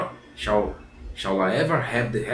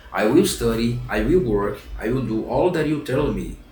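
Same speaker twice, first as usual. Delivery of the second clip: louder, eager puppet promises; eager pledge; 4 dB louder than usual. Acted. Pinocchio vows to the fairy to study. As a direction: promise it like you mean it.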